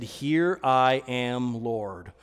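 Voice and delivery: slow, low, soft answer to God; quiet, unhurried surrender; hushed reverence. Retold or imitated. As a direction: act out a humble reply, drawn out and sinking. Acting Ananias answering the Lord.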